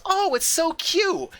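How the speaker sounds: high, drawn-out mock coo; imitated cooing. Woman seeing a hatchling, imitated cooing. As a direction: coo slowly over something adorable. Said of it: "suddenly she goes".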